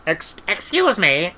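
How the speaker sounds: slow, stammered character voice; hesitant interruption. A narrator's reading. Treatle interrupting the senior wizard, hesitant. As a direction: stumble politely into an objection.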